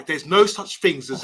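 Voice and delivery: tentative imitation of his accent; Bath Time's accent. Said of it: "I'm gonna do Bath Time's accent".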